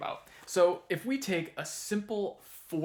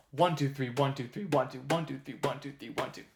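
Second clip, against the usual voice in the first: rhythmic three-three-two count, accent on each "one"; tresillo count. Shown as a demonstration. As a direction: tap out the tresillo with the voice, leaning on "one". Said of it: "common rhythms you'll find are the tresillo".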